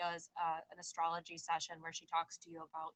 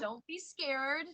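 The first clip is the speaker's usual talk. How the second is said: slow, higher coaxing comfort; drawn-out reassurance; 6 semitones higher, 3 dB louder, much slower than usual. Real, not acted. Host comforts scared guest before her reading, coaxing reassurance. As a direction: stretch it out soothingly, lifting at the end.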